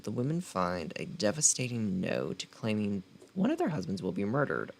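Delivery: dramatic book-blurb narration; blurb read. Acted. Reading the back cover to her viewers, dramatic blurb read. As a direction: sell the story like a trailer.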